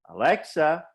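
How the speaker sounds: fed up with the music, calling out to Alexa. Pretend. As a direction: call the name sharply to cut it off. Calling the device to stop music.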